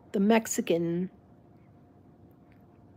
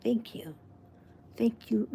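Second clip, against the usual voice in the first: sincere thank you; 5 dB quieter than usual. Shown as a demonstration. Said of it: "You say thank you and you take it".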